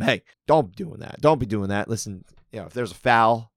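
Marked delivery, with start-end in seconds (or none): 0.0-1.9 mildly raised, scolding referee tone; half-hearted bark at the fighter; imitating a referee yelling at a fighter; mock yelling. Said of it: "going up and yelling at them".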